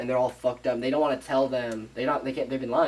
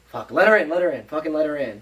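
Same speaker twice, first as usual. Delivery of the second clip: exasperated giving in; 3 semitones higher, 5 dB louder than usual. Retold or imitated. Family finally giving in to the pleading, exasperated. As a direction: voice the fed-up family relenting. Acted grudging reply in story.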